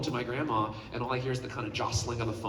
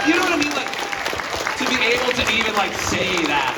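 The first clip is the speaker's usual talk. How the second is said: tearful cracking voice; 11 semitones higher, 8 dB louder than usual. Real, not acted. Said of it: "Don't be crying".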